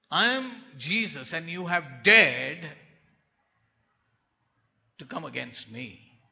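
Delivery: a tall, stern Lord calling him out; stern firm Jesus. Retold or imitated. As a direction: confront him straight, no softness. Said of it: "very straightforward".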